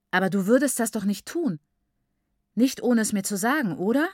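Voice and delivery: upset questioning that lifts sharply on the last word; dismayed. A narrator's reading. Daughter asks her mother about the book, dismayed. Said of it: "fragte Nyasha bestürzt".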